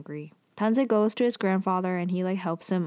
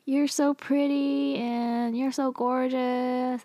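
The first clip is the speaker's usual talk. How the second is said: higher, slow, lightly voiced fawning servant; gushing flattery; 5 semitones higher, slower than usual. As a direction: coo the compliments like an eager servant. Servant flatters Aro over tea.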